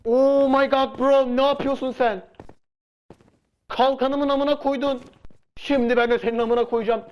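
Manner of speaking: high, slow, outraged yells at the opponent; a gamer losing his shield yells at the enemy, high and slow; outraged yelling. Real, not acted. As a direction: drag the words out in shocked fury.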